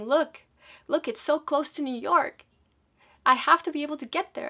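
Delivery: high, loud, desperate insisting; a mother pushing hard to be understood; frantic pleading. Retold or imitated. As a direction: beg them, almost panicking. Mom pleading with airport attendants.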